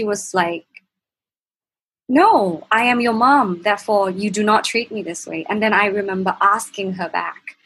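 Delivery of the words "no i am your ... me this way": mild mock outrage, emphatic from the first word; indignant mother. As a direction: retell a mother firmly pulling rank. Mother's retort in retold quarrel.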